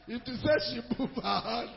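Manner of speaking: chuckling through the words; a laugh breaking into the phrase. Real, not acted. Retelling the pistol moment, laughing.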